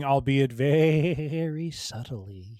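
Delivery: "very" stretched out long and slow; drawn-out emphasis. Real, not acted. Co-host hedging on the Eternals interfering, "very" drawn out slowly. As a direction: slowly draw out the word "very".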